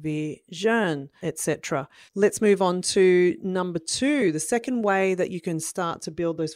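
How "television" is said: Television tapped out beat by beat; drummed syllables. Shown as a demonstration. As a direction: tap each syllable on the drum. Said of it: "You go".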